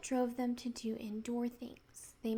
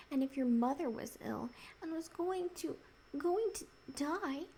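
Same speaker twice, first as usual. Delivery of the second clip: holding back tears; 4 semitones higher than usual. Acted. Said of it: "his face went the wrong sort of shape".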